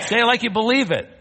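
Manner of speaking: high, loud, quick urging; rallying shout. Real, not acted. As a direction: fire up the crowd to respond. Urging congregation to repeat louder.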